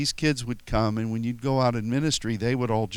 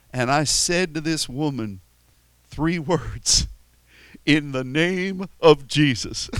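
imitating Cajun preacher; 5 dB louder than usual. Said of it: "such a Cajun accent".

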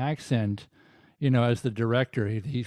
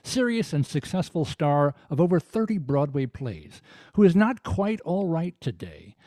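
measured TV narrator intoning an eerie introduction; dramatic prologue read. Acted. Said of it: "If you could give that a read".

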